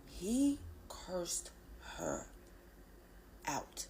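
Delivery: hushed, almost unvoiced; whisper. Real, not acted. Whispering to viewers about her father cursing Abby out. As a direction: drop to a whisper on the aside.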